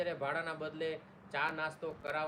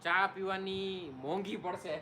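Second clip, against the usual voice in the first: 1 laughing; 4 semitones higher, 3 dB louder, slower than usual. Real, not acted. Joking about tea cost.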